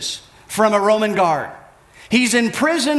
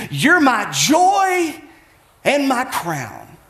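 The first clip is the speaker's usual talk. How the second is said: proclaimed; 2 semitones higher, much slower than usual. Retold or imitated. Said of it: "he says".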